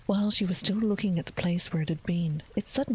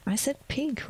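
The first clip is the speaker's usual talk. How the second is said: a hint of a girl's voice, pitched up; whispered Alice voice; 7 semitones higher than usual. Alice answers the cat, lightly voiced whisper.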